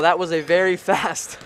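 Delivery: breathless, laughing after the rush; winded from calling the play; out of breath. Real, not acted. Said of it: "I'm out of breath".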